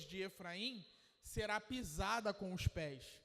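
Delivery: preacher reading Isaiah aloud; scripture reading. Acted. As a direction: read the prophecy with gravity.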